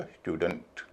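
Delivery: "स्टूडेंट" as styoo-dunt; y-glide. Shown as a demonstration. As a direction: say "स्टूडेंट" with y before oo and a weak uh in the last syllable. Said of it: "शब्द को बोला जाएगा".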